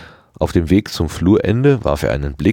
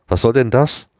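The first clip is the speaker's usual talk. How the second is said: half-asleep grumble; 7 semitones higher than usual. A narrator's reading. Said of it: "maulte er im Halbschlaf".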